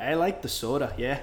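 lightly put-on Minnesotan round vowels; Minnesota accent. Shown as a demonstration. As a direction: lean on the Minnesotan O. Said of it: "like, Minnesota accent?".

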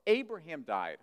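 quick, scornful challenge; indignant challenge. Acted. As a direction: fire off the question in disbelief. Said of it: "And they said, Look, look".

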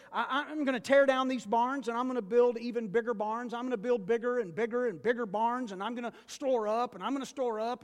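loud, gloating rich man bragging about his barns; boastful rich fool. Retold or imitated. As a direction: play the greedy farmer crowing over his wealth. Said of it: "He said".

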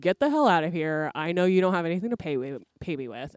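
loud, fast telling-off; a crone's hurried snapping dismissal; angry old woman. Retold or imitated. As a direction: shoo him out in a rush. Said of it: "And she's like".

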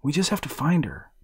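boy reassuring his golem, lightly voiced; boy hero.

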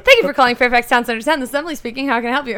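fast, bright phone greeting; customer service voice. Retold or imitated. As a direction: rattle off the store greeting. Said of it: "it was".

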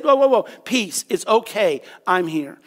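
gentle "it's all right" voice; calming them down. Acted. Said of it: "he had to calm them down".

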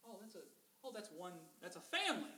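hushed, amazed bystander muttering; a stunned onlooker under his breath; amazed Egyptian. Retold or imitated. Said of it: "I'm like".

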